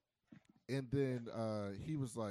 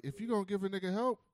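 louder, higher mock demand; exasperated; 7 semitones higher, 7 dB louder than usual. Retelling her telling him off, exasperated. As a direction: raise the voice in put-on exasperation.

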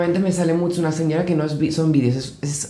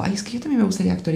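imitating girl; 4 semitones higher, 6 dB quieter, faster than usual. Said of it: "la chica del coche le dijo".

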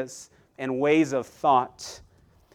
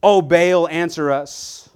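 calling out; 3 semitones higher, 5 dB louder, slower than usual. Retold or imitated. Prophets of Baal crying to their god, loud calling. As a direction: call out to a silent god. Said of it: "They begin calling on their God".

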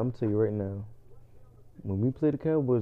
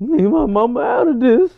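mock offended; 11 semitones higher, 10 dB louder than usual. Mock offended reply to yo-mama joke.

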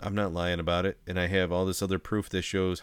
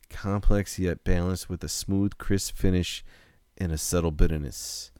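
commercial voice. Acted. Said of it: "you did the Boston".

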